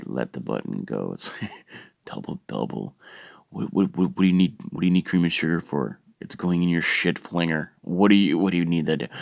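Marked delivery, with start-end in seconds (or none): 2.1-9.1 snarky incredulous rant; mock the customer behind her back; mocking coworker. Worker mocking after releasing button.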